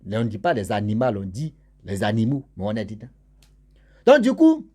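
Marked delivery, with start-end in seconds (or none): 4.0-4.7 much higher, loud launch; sudden high excited restart; excited burst. Real, not acted. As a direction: jump back into the story with a burst. Storyteller bursts out.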